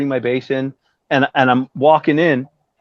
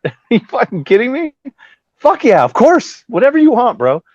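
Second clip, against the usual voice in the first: retold eagerness; 9 semitones higher, 4 dB louder than usual. Bassist agreeing to jam with Rat, eager. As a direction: act out saying yes wholeheartedly.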